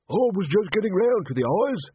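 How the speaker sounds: high-pitched, testy retort; peevish, indignant outburst; irritated snapping. A narrator's reading. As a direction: snap back at being upstaged. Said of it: "snapped Tommy".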